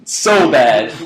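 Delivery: laughing through the words; cracking up mid-sentence. Real, not acted. Laughing while telling friends he got hustled.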